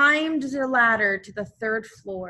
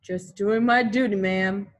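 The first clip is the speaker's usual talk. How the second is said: modest hero; 4 dB louder than usual. Acted. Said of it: "said Mose".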